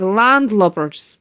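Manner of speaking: a slip into Scottish; drawn-out word with a Scottish lilt; accidental Scottish accent. Acted. Captain ordering crew about deck chores, slipping into Scottish. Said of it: "why did I go Scottish?".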